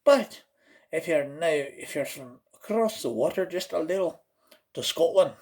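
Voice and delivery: lilting put-on Celtic brogue; Irish accent sliding toward Scottish. Shown as a demonstration. Crossing the water to Scotland, Celtic accent.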